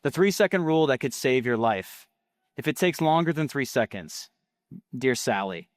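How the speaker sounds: punchy ad copy with falling line endings; ad read. Acted. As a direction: read it as a sales script, pausing between phrases.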